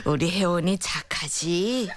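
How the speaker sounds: slow soothing coo. Acted. Grandmother comforting crying granddaughter.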